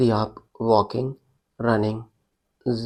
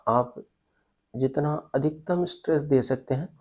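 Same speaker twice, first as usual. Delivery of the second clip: measured body-scan instructions, pausing between phrases; guided meditation; 3 dB quieter than usual. Real, not acted. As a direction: lead them step by step through breath and tension. Guides breath and tensing exercise.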